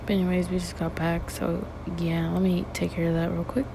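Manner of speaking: talking in a small echoey bathroom; echoing bathroom. Real, not acted. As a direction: bathroom echo on the voice. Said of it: "I'm on the toilet right now".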